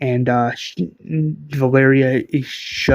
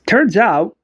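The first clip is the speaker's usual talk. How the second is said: sly, breathy whispered reveal; hushed villain tease; menacing whisper; 6 semitones higher, 4 dB louder than usual. Acted. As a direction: lean in and whisper the secret threat.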